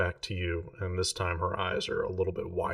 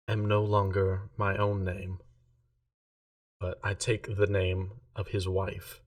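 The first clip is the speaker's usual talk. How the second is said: slow, flat monotone delivery; a lightly voiced numb servant. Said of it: "It's been very monotone this whole time".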